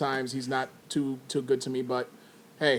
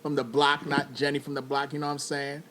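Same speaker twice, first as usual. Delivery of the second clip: gangster voice. Acted. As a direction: play a laid-back homeboy from the block. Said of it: "Why are you talking like that?".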